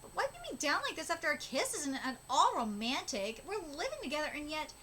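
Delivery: lively acted manga dialogue; animated story reading with swooping pitch; manga read-aloud. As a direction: read it as characters bickering fondly.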